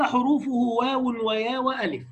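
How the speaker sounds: slow chanted recitation of a poem; slow measured verse chant; recited verse. Shown as a demonstration. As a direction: intone each line slowly like a memorized text. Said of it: "قال".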